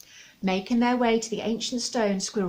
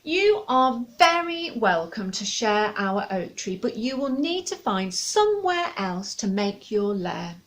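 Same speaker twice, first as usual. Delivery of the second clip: firm owl. Acted. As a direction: set the limit kindly but firmly. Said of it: "said Luna firmly".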